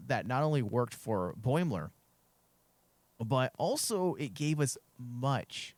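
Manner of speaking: hoarse and losing voice. Real, not acted. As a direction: voice giving out, hoarse. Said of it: "I'm losing my voice here".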